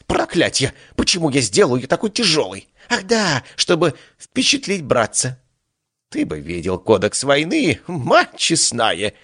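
high whiny complaint from a hurt god; whining god. Acted. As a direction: whine about the sore toe. God hurt his toe.

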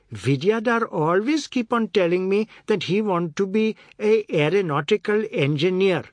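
loud, high, boastful; boasting Chinta. A narrator's reading. Chinta boasting to Oad, loud. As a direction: brag about her son.

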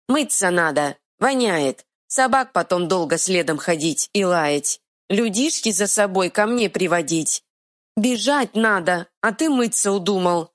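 simple troll scolding. Acted. Troll argues.

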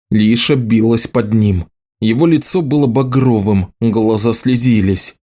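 ordinary delivery

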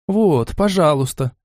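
slow, smiling offer. A narrator's reading. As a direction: hand it over with a smile. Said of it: "снова улыбаясь". (с улыбкой)

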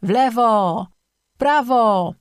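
high creature yells; squabbling high-pitched shouts; insistent yelling. A narrator's reading. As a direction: yell rival directions, each one high and drawn out. Two creatures quarrel over the way.

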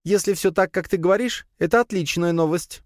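high, happy little spider voice; joyful chattering. A narrator's reading. Spider to master on good news, joyfully chattering. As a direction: chirp it with delight. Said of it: "радостно застрекотала паучиха".

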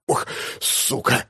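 whispered, slow wheeze; rasping from the pain of getting up; hoarse groan. A narrator's reading. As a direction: groan it out as you rise. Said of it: "С хрипом встаю".

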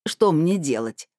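slow, tearful plea; sobbing plea. Acted. Old neighbour begs Lyuba for help, slow and tearful. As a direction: drag the words out, close to tears. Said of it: "всхлипнула Ивановна".

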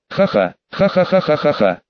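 a burst of giddy, half-hysterical laughing; hysterical laughter. A narrator's reading. Heroine laughing hysterically at Severus. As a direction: laugh as if you can't stop yourself. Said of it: "в приступе лёгкой истерики".

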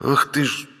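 outraged, breathless splutter; indignant gasp. Acted. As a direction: choke on indignation. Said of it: "задохнулся от возмущения брат".

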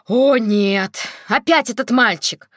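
loud exasperated cry; exclaiming. A narrator's reading. Grandmother groans about the boy, loud and exasperated. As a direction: throw up your hands and exclaim. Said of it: "воскликнула бабушка".

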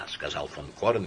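ordinary delivery, nothing marked

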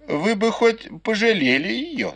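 lightly voiced grandmother, pitched high; a hint of an old lady teasing; old matriarch's voice. Grandmother teasing the maids, lightly voiced old lady. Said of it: "сказала матушка Дзя".

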